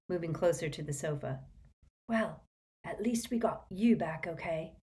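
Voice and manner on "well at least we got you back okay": weak. Acted. Weak injured George.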